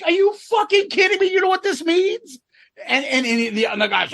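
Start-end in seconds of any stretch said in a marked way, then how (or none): 0.0-2.4 high, disbelieving mock outburst; incredulous scientist. Retelling the scientist scolding the Soviet official, high and aghast. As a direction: play the scientist aghast at the denial.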